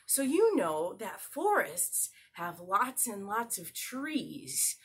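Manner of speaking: slow, wide-eyed storybook reading; animated picture-book narration; storytelling to a child. Acted. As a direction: tell it like a bedtime tale. Reads story to toddler.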